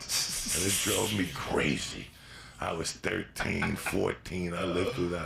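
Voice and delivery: slow, emphatic. Real, not acted. Stressing to listeners how crazy she drove him. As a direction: lean hard on every word. Reliving teenage lust.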